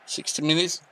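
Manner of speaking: talking through hiccups; hiccupping between words. Real, not acted. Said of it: "got the hiccups".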